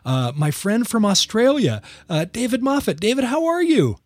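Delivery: genuinely excited introduction of a guest; excited host. Real, not acted. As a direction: stretch the opening, then lift into a high greeting. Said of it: "Very excited to have a special guest".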